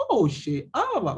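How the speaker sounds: put-on singsong jungle Peru accent; a playful Peruvian selva speaker. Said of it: "tienen un acento más, más tupidito".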